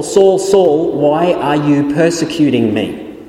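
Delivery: voice of Christ calling. Retold or imitated. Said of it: "where Christ says to Paul".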